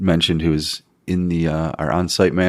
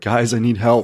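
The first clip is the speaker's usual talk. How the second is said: mock yelling, calling out; 5 semitones higher than usual. Retelling how the on-site manager called out for help: imitating someone yelling. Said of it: "yelling out".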